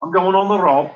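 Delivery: hammed-up Scouse comic demo; Scouse accent. Shown as a demonstration. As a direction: do an exaggerated Liverpool Scouse accent. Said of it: "authentically Scouse".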